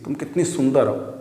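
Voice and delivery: soft, amazed compliment; sudden admiration. Shown as a demonstration. Teacher acts a sibling seeing his bride-ready sister, amazed. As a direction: say it as if struck by her beauty. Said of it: "देख के अचानक बोलोगे ना".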